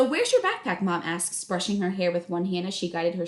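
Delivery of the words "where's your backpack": higher, louder mom calling; a busy mom calling up; brisk mom voice, pitched up; mom's voice. Acted.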